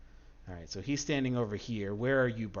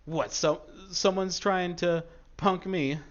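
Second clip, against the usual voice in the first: louder, higher, slow challenge; riled bandit; 8 semitones higher, 7 dB louder, slower than usual. Acted. Bandit leader answers the player's taunt, riled. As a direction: rise up at the insult.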